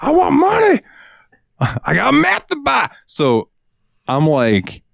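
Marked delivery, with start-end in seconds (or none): 0.0-2.9 mock customer voice. Cashier mocks the customer in a high put-on falsetto. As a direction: whine it like a junkie shopper.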